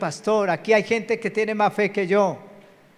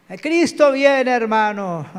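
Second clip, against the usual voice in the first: mock doom preacher; 4 semitones higher, 4 dB louder than usual. Mocking fear-based end-times preaching.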